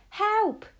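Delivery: high, loud cry for help; terrified scream. A narrator's reading. Cornered boy calling for anyone outside, terrified scream. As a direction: scream out in sheer terror. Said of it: "I screamed".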